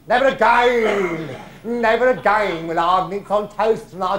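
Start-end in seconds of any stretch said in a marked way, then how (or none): 0.1-2.7 slow, loud drawn-out vow; mock vow. Old pro swearing off mince on toast, loud and slow. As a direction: proclaim it like a solemn oath. Vows never again.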